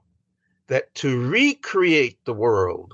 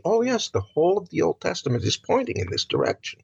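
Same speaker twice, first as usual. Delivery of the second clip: sudden realization; 8 semitones higher, faster than usual. Retold or imitated. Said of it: "do you see".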